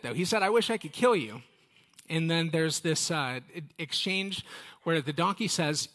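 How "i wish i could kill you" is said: mock anger. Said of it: "He does say that".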